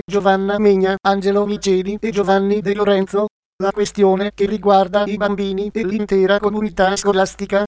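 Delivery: text-to-speech voice reading the news; even, computer-read news report; synthetic news voice. Real, not acted. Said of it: "sintesi vocale Voce Viva".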